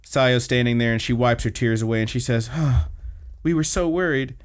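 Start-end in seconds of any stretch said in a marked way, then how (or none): 2.5-4.4 slightly higher, halting worried plea; heartfelt concern. Retold or imitated. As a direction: imitate a tearful friend's relief, lightly played. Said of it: "looks like she's really concerned".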